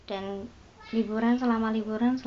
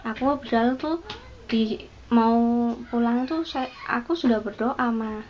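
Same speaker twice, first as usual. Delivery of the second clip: mild crying; 2 semitones higher than usual. Retold or imitated. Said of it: "anak ini menangis".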